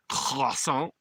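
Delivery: Croissant with a French-ish ending, krah-SAHNG; mock-French Croissant for French fans. Shown as a demonstration. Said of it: "All my French people in the house".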